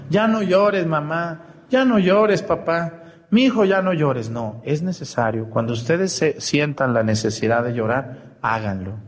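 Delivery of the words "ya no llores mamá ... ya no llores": soothing plea. Retold or imitated. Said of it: "le decían".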